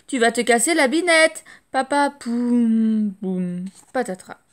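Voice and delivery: loud cry of warning rising, then a mocking crash; loud alarm then crash noise; warning shout. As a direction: shout the warning before the fall.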